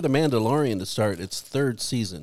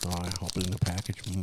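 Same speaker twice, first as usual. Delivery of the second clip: ASMR voice; 4 semitones lower than usual. Pretend. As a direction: hush it like an ASMR video. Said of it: "total A S M R video".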